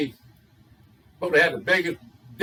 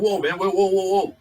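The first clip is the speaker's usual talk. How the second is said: higher-pitched, repeated whoas of alarm; alarmed protest; 4 semitones higher, 3 dB louder than usual. Acted. Bartender to customer laying down a pistol, alarmed. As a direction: act a bartender urgently halting someone.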